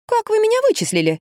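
high, startled question; surprised. A narrator's reading. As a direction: caught off guard, ask how. Heroine surprised at being spotted.

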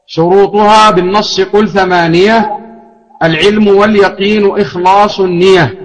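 verse read with النية lightened to a single ya; lightened for metre. Shown as a demonstration. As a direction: keep the metre, no shadda on النية. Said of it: "وهكذا يستقيم الوزن".

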